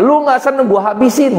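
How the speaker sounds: arrogant threat. Retold or imitated. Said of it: "kebal hukum".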